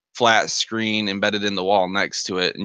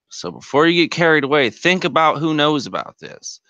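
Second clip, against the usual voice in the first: lightly voiced schemer, silky and knowing; the speaker on screen. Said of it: "the familiar face, uh, Archie Shaw".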